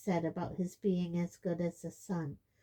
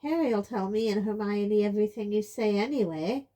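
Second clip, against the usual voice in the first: hotly; 3 semitones higher, 8 dB louder than usual. A narrator's reading. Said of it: "said Ron hotly".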